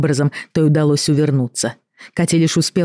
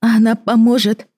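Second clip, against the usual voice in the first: hopeful; 8 semitones higher, 4 dB louder than usual. A narrator's reading. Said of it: "с надеждой спросила Катя".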